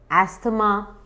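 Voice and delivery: अस्थमा as "as-tha-ma", th sounded; three syllables in अस्थमा with a t sound; common mispronunciation. Shown as a demonstration. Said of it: "कुछ लोग उसे कहते हैं". (अस्थमा में थ साफ़ बोलें)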